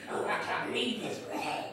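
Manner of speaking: low grumbly mock complaint; lightly voiced grumbling wife; grumbly complaining. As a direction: mutter like a sulking partner. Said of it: "this low, little, grumbly little thing".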